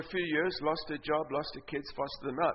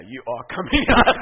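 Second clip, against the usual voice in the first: commanding shout; 5 semitones lower, 12 dB louder than usual. Retold or imitated. Shouting at the demon.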